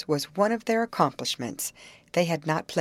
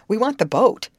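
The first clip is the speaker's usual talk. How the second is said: louder, then very high and loud on the last shout; calling out, building; 9 semitones higher, 9 dB louder than usual. A narrator's reading. Molly shouting at the youth to fetch the boat, rising yell. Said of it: "she called".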